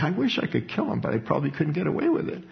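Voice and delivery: soft, quick, half-joking grumble; a soft, rushed grumble of a secret wish to kill a brother; muttered grudge. Retold or imitated. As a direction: let a spiteful thought slip out under your breath. Hateful thought voiced.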